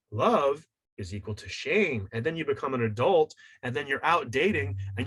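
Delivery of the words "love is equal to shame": slow, detached inner voice; the unconscious. Retold or imitated. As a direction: state it slowly like a hidden rule being written. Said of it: "your unconscious goes".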